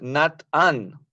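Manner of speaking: "Nat-an" split after t; wrong syllable split. Shown as a demonstration. Teacher asking why not this split. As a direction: break "Nat-an" as the mistake. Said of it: "por qué no es".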